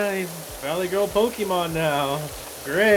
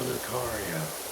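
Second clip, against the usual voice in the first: Lucario cry; 6 semitones lower, 9 dB quieter, slower than usual. Acted. Talking as Lucario in game.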